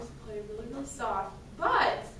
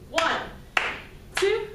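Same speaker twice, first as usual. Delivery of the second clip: loud count-off; 4 semitones higher, 5 dB louder, much slower than usual. Shown as a demonstration. Band teacher counting students in for a forte, loud. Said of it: "give it a forte".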